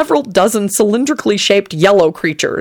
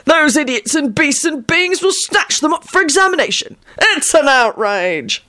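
put-on conspiratorial old man; 9 semitones higher than usual. A narrator's reading. Old man confiding to Lupin, high conspiratorial voice. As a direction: lean in and grumble secretly. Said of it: "hissed conspiratorially".

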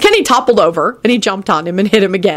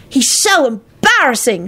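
put-on shouting kid; 7 semitones higher, slower than usual. A narrator's reading. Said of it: "shouted Teddy".

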